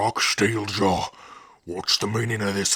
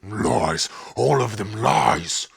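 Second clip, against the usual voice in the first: angry denial; 4 dB louder, slower than usual. Acted. Accused chief denies the charge.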